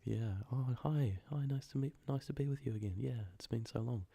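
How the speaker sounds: soft, high, gentle greeting; soft spoken. Shown as a demonstration. Narrator imitating soft talkers greeting someone, soft spoken. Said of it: "you hear soft spoken be thrown around".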